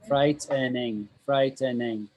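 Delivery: "frightening" drawn out, each syllable distinct; slow teacher's model of "frightening"; said slowly. Shown as a demonstration. Teacher modelling pronunciation for a student, slow and careful "frightening". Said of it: "I'll say it slowly".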